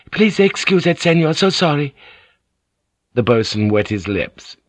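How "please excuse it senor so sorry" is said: higher, strained courtesy; forced politeness. A narrator's reading. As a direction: sound polite through the tension. Mariko's voice.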